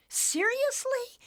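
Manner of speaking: very high, slow disbelieving question; stunned. Acted. Nimbus hears of other universes, stunned and slow. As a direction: let disbelief stretch the word.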